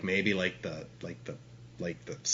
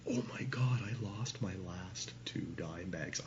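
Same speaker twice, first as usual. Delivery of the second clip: whispered in retold panic, barely voiced; panicked whisper; 2 semitones lower, 13 dB quieter than usual. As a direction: hiss it under your breath like you just realized the loss. Realizing he lost the dope.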